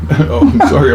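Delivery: slow laughing sorry; laughing apology. Real, not acted. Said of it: "I'm talking while I'm eating".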